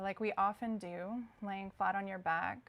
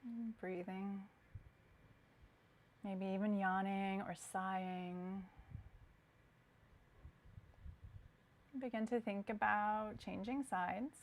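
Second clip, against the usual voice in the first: guided meditation; 3 dB quieter than usual. Acted. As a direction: guide the breath calmly, leaving long silences. Guides breathing during stretches.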